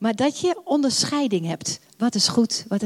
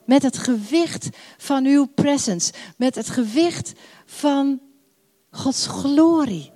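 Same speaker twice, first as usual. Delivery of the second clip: slow prayer. Acted. Pastor prays aloud.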